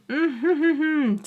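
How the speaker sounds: high hummed mock giggle; imitated closed-mouth chuckle. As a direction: mimic a pleased giggle through closed lips. Mimics her reaction to turned-up TV.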